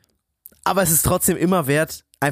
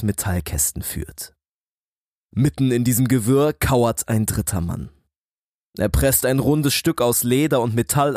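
story narration. Acted. Read dramatic story intro. (dramatische Erzählstimme)

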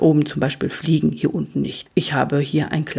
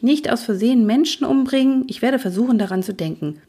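higher-voiced, obliging youngster; dutiful young Luzifer; 7 semitones higher, faster than usual. Luzifer promises his uncle to be careful, dutiful and high. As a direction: recite the promise in a lighter, higher voice.

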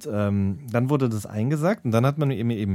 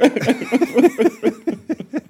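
very high, loud burst of laughter; high laughing burst; 8 dB louder than usual. Real, not acted. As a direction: break into helpless laughter. Laughter at the joke.

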